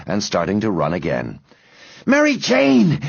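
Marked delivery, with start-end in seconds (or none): 2.1-3.0 high, breathless call; panting. A narrator's reading. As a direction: pant out a friend's name urgently. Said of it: "panted Henry".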